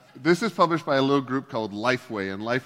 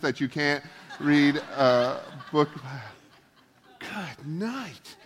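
laughing dismissal; 4 semitones higher, 3 dB louder, slower than usual. Real, not acted. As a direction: laugh it off with a cheeky goodbye. Joking dismissal of sexist readers.

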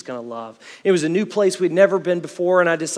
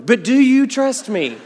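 laughing question; 8 semitones higher, 8 dB louder than usual. Retold or imitated. Dad pressing, laughing.

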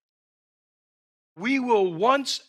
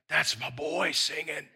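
softer, hushed delight over his son; tender fatherly pride; 3 semitones lower, 4 dB quieter than usual. Acted. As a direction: say it like a proud whisper of love. God's tender pride, softer take.

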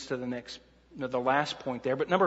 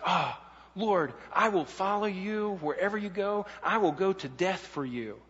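higher-pitched, overstated pledge of devotion; Peter's earnest vow; 3 semitones higher than usual. Acted. Preacher voicing Peter's promise to Christ, earnest mock vow. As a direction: imitate Peter declaring devotion, lightly overdone. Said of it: "just what Peter did before Christ".

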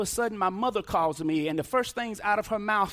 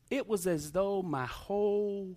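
hushed grief; 3 semitones lower, 5 dB quieter, slower than usual. Real, not acted. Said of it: "when my mom told me this".

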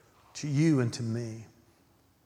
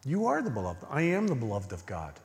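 soft prayer; 4 dB quieter than usual. Shown as a demonstration. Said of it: "go to him and say".

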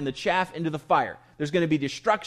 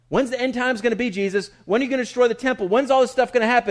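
eager disciples; 5 semitones higher, faster than usual. Retold or imitated. Disciples pestering Jesus.

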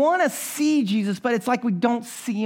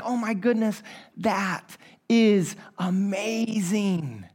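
hushed awe; 4 dB quieter, much slower than usual. Retold or imitated. Staring at ultrasound screen in awe.

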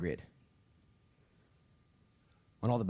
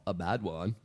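light joking southern drawl on "A bad one"; mock southern drawl; slower than usual. Shown as a demonstration. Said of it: "say it in your southern drawl".

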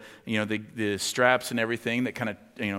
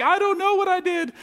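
put-on very high, small child's plea; high, childlike "I don't know what I did"; scared little kid; 6 dB louder than usual. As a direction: squeak it like a caught eight-year-old. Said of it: "regressed back to eight years old".

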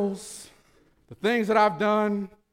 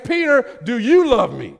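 impassioned shout; 3 semitones higher, 5 dB louder than usual. Acted. Preacher voicing Jesus' challenge.

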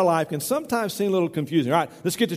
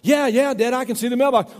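higher, louder eager reply to Dad; imitated calling out; 6 semitones higher, 3 dB louder than usual. Farmer's son answers his father from afar, imitated calling. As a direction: voice a son calling back across the yard.

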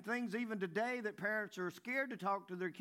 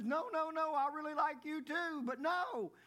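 put-on girl voice; 7 semitones higher than usual. Girl voiced in date joke.

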